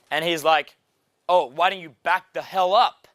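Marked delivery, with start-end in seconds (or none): 1.3-3.1 mildly aggressive mimicked local; defensive Texan guy. Texan telling a stranger to back off, mock defensive. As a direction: lightly act out a guy warning off a rival. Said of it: "this Texan guy, was super defensive".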